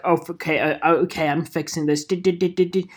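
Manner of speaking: lightly voiced British gadget man; busy tech helper with a hint of British accent. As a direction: play the obliging British quartermaster, lightly. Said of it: "you should be like Q in James Bond".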